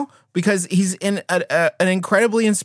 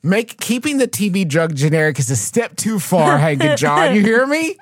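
mock scolding. Mock scolding the Green brothers.

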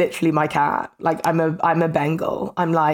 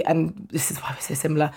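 whispering; 2 semitones lower, 6 dB quieter than usual. Real, not acted. Aside about her cat.

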